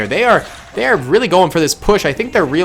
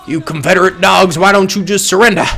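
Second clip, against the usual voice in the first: put-on southern accent; 2 semitones higher than usual. Gamer taunting Confederate troops in a mock Southern accent. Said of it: "Why am I doing a southern accent".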